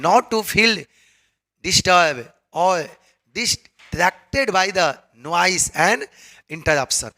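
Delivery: dictation pace, word by word; slow dictation read. Shown as a demonstration. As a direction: read it out slowly for the class. Reading English text slowly.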